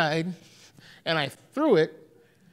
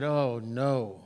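dismayed oh no; 8 semitones lower, 7 dB quieter than usual. Retold or imitated. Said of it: "And I said".

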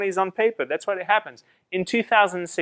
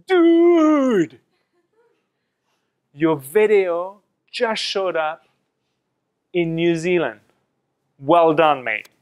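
attempted Kiwi accent; slower than usual. New Zealand friend emailing congratulations, in a rough Kiwi accent. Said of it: "his Kiwi accent".

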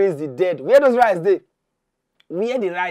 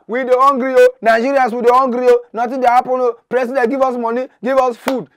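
louder, pleading "o" at each line end; crowd shouting; 4 semitones higher, 5 dB louder than usual. Retold or imitated. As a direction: voice the hungry crowd calling out. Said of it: "people dey hala".

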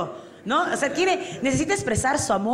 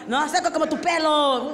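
put-on party drunk; 4 semitones higher than usual. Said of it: "Y es el típico".

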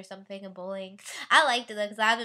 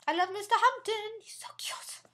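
whisper; 10 semitones higher than usual. Real, not acted. Secret crush confession to camera.

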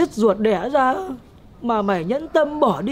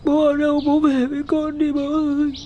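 tearful calling out; 3 semitones higher than usual. Acted. Child calls for dead father.

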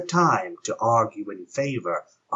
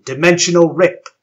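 dramatic exclaim; 7 semitones higher, 10 dB louder than usual. A narrator's reading. Sudden rip in space.

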